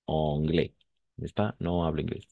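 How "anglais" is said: anglais ending in an open eh sound, s silent; AI pronounced as E. Shown as a demonstration. Teacher showing how AI sounds in French, careful pronunciation. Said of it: "on va prononcer comme un E".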